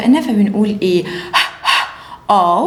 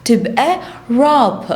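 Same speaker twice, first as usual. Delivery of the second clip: drawn out, sound by sound; slow phonics blend; much slower than usual. Shown as a demonstration. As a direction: blend it slowly. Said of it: "R، أو".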